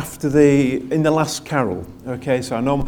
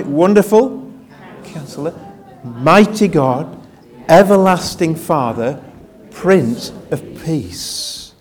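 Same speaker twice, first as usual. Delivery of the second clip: reciting with congregation; slower than usual. Shown as a demonstration. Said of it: "join me".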